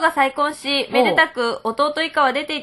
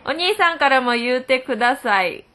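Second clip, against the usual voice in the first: Kansai dialect reading. Retold or imitated. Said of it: "あ、これ関西弁。".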